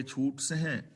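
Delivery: ਸਹਿ nasalised at the end, "sahain"; nasal ending. Shown as a demonstration. Teacher shows the added bindi, ਸਹਿ ending nasal. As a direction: say ਛੂਟ ਸਹਿ with a nasal final vowel. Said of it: "ਇੱਥੇ ਬਿੰਦੀ ਲਗਾਵਾਂਗੇ".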